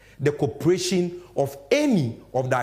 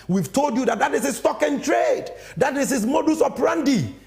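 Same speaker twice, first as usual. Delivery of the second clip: emphatic declaration; 8 semitones higher than usual. Real, not acted. Host declares accusation.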